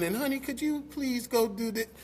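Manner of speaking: put-on sweet, soft, high little feminine voice. A husband talking about his wife, imitating wife's little feminine voice. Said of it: "with that little feminine voice on".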